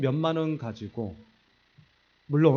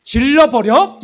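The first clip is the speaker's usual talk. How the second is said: much louder, higher reckless cry; fed-up outburst; 9 semitones higher, 15 dB louder, much slower than usual. Retold or imitated. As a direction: blurt it out, fed up. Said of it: "내가 뚜껑이 열렸어". (홧김에 크게 높여 외치는 질러버려)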